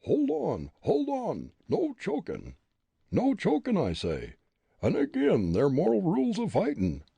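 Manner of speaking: high, strained, desperate begging; choked pleading. Acted. Bully Jake pinned under Fritz, strained pleading. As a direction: beg him to stop choking you.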